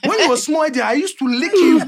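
dad's voice. Retold or imitated. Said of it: "Dad, remember".

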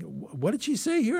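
high, baffled mock question; imitating herself puzzling over the script; puzzled self-quote. Acting out her own confusion.

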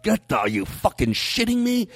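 high-pitched, incredulous inner rant; exasperated inner outburst. Retold or imitated. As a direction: seethe in disbelief, voicing a private thought. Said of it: "inside, I'm like".

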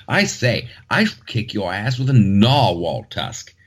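mock British. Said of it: "very British fashion".

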